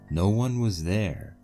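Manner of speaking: normal talking voice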